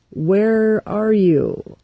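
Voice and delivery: God calling out for Adam and Eve. Retold or imitated. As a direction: call slowly across the garden. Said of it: "he says".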